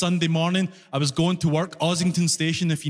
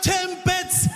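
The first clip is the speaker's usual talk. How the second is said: impatient customer; 9 semitones higher than usual. Retold or imitated. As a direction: say it like it's obvious. Customer repeating word impatiently.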